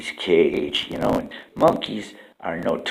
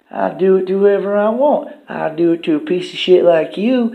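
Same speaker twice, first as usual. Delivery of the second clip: mean lion tamer; 12 semitones higher, 7 dB louder than usual. Acted. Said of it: "he's like".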